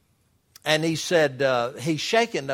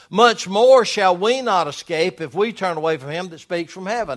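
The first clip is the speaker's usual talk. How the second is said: raised, declaiming Bible reading; emphatic scripture reading; 4 semitones higher, 7 dB louder than usual. Acted. Preacher reads Hebrews to the church, emphatic scripture reading. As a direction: read scripture out firmly to the congregation.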